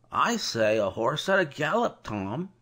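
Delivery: urgent correcting voice; guard correcting him sharply; wary guard. Acted. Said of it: "returned the guard".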